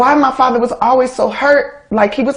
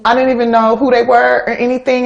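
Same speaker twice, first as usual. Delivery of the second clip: normal talking voice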